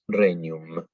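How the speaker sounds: regnum dicho reñum; gn como ñ. Shown as a demonstration. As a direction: di regnum con ñ italiana. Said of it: "es como en italiano una ñ". (regnum pronunciado con ñ)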